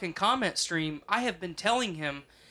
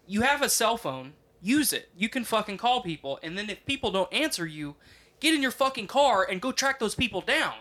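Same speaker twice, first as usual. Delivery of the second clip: exasperated, higher-pitched lecture; frustrated scolding; 4 semitones higher than usual. Retold or imitated. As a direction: lay into him like a fed-up dad. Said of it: "I get so frustrated".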